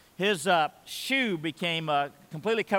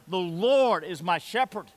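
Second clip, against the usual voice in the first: slow firm recitation; 2 semitones higher, 3 dB louder, slower than usual. Shown as a demonstration.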